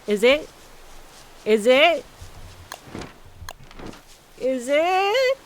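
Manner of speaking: excited. Real, not acted. Building anticipation over finding ring.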